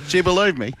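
excited disbelief. Real, not acted. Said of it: "Mate, she believed me".

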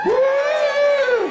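high, long "woo" of a crowd; party whoop. Acted. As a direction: whoop like a tequila lover. Comic whoops like tequila lovers.

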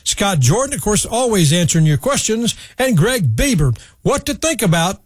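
punchy broadcast sign-off with lifted pitch; radio show sign-off. Acted. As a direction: read the credits and contacts like a radio presenter. Host reads show sign-off.

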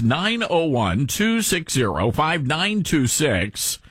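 slow, spaced-out phone number; deliberate, drawn-out digits; slow repeat. Real, not acted. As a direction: read the digits out slowly for listeners to note.

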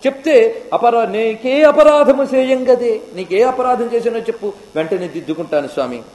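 high, anguished plea to the lord; pleading devotee. Acted. A hunter devotee begging Shiva to eat his offering, high and anguished. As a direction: beg him to say what you did wrong.

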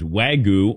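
"Wagyu" slowly, with a plain "goo" ending; tentative pronunciation. Shown as a demonstration. Host tries the beef's name before asking Dylan, saying "Wagyu" as WAG-oo. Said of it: "how do you say it".

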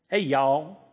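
light Southern drawl; Southern accent. Acted. Imagined Galilean as a Southerner, mock Southern accent. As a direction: greet them like a Southerner. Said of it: "someone's from the South".

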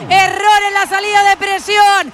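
high, shouted recap of the goal; excited goal commentary. Real, not acted. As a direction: keep the goal euphoria going. Commentator celebrates fourth goal.

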